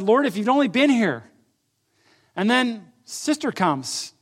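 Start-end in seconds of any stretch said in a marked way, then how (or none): 0.0-1.2 retold reproach, raised and louder; Martha. Sister meets Jesus arriving late, retold reproach. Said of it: "Martha comes up and said".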